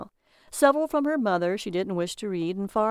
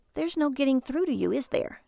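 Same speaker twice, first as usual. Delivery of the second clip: higher-pitched, resigned reproach; exasperated wife; 6 semitones higher than usual. A narrator's reading. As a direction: give up on getting through to him. Wife gives up on husband.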